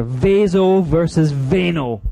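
slow, stressing Vaso and veno; contrastive stress. Shown as a demonstration. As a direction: set Vaso against veno slowly. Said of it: "Get those two clear".

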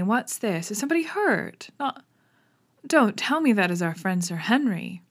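a jaunty neighbour, feigning surprise; lightly voiced naturalist, mock concern; lightly voiced Stapleton.

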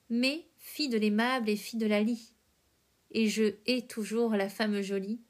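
measured verse recitation with pauses between phrases; poem reading. A narrator's reading. Host reading Verlaine's poem Résignation, measured verse recitation. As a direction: recite it line by line, letting each phrase settle.

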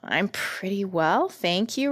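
put-on slow, mildly polite little-girl reply; well-mannered, lifting on the thanks. Dorothy answers the Scarecrow's greeting, politely. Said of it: "replied Dorothy politely".

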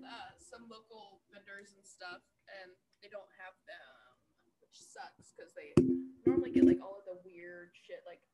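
distant, faint voice off the mic; talking from across the room; far from mic. Real, not acted. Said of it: "Why'd you put the mic so far away?".

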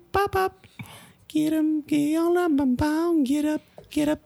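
very high beeping robot chant; toy robot voice. Pretend. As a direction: chirp like a wind-up toy robot. Summoning ritual in beeps.

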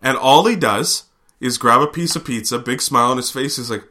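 ordinary delivery

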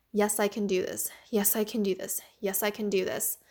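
steady, resolute inner cheer; determined self-talk. Retold or imitated. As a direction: pump yourself up with each repeat. Confident self-talk set against defeat.

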